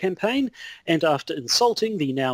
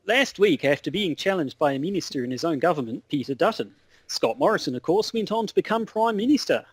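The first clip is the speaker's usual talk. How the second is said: shaky attempt at an Australian accent; mock Australian news report. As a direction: put on an Aussie correspondent. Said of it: "I find that Australian accents really hard".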